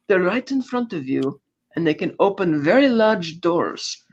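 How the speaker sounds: playful sleazy whisper-like tease; sly hint. Retold or imitated. Boris leaning in, teasing hint.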